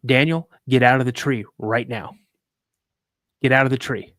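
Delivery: firm order. Retold or imitated. Dad's first firm order, retold.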